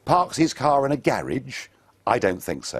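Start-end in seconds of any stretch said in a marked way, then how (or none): 1.0-1.7 garage said "GARR-idge"; anglicised pronunciation. Shown as a demonstration. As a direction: say garage to rhyme with marriage. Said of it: "You think he parks it in a garage".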